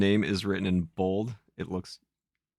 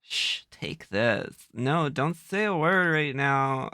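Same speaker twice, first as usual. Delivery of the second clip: put-on Valley Girl Zelda; 4 semitones higher, slower than usual. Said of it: "You're getting Valley Girl".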